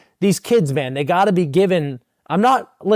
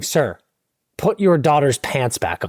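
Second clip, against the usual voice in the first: flight attendant; 4 semitones lower than usual. Pretend. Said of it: "flight attendant running down the aisle and going".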